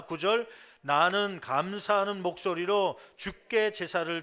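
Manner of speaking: loud, measured read-aloud of scripture. Acted. Pastor leading the congregation in reading the verse together, loud scripture recitation. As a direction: lead the congregation firmly through the verses.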